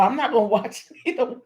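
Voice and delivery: quick words breaking into a laugh; chuckling through the line. Real, not acted. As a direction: laugh it off, fast. Laughing at her own excitement.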